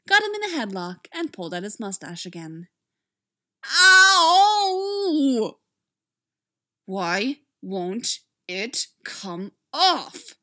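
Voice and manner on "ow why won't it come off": crying out in pain. A narrator's reading. Mustache ripped off, crying out.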